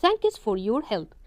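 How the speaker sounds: Thanks for your help drawn out very slowly; slow model reading. Shown as a demonstration. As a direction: read the thanks line slowly for learners. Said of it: "slow dialogue model".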